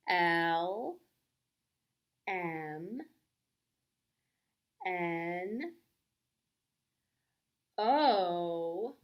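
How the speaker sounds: whispered letter. Acted. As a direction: breathe it in a whisper.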